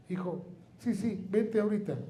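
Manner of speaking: high, urgent mom calling back; mother's voice. Retold or imitated. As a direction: imitate mom summoning him now.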